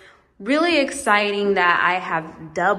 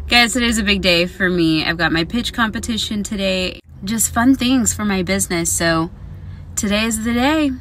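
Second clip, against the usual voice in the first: excited; 2 semitones lower, 5 dB louder than usual. Real, not acted. Big pitch competition day.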